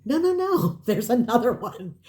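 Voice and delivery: high, quick "no, no, no" with a laugh; eager clerk. Retold or imitated. Clerk at lost and found announces another box, high and eager.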